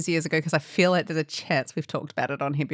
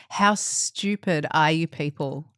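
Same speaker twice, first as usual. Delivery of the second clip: frustrated. Retold or imitated. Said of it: "She was so frustrated".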